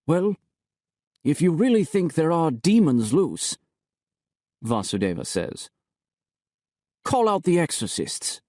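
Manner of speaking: failed mockery. A narrator's reading. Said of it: "He tries to sound mocking, but doesn't succeed".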